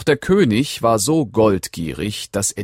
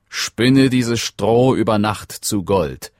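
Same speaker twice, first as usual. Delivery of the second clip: commanding king; 3 semitones higher, 4 dB louder, slower than usual. Acted. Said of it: "befahl er".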